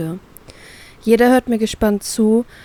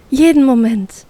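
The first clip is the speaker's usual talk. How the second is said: beaming, sugary reply, louder and higher; sugary sweet; 4 semitones higher, 5 dB louder than usual. Acted. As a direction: answer all sweetness. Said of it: "strahlt sie mich zuckersüß an".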